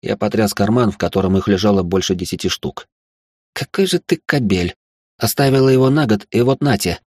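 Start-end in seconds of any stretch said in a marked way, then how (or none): 3.5-7.0 mock-hurt scold of a cheating man; upset reproach. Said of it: "огорчённо сказала она".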